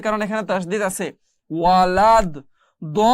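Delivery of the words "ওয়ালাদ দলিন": ওয়ালাদ দলিন loud, দ's vowel held very long, লিন lengthened; long madd recitation. Shown as a demonstration. Teacher demonstrating madd, ওয়ালাদ দলিন chanted with long vowels. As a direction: stretch দ at length, then লিন three counts in দলিন. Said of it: "এই লিনটা টান হবে তিন আলিফ".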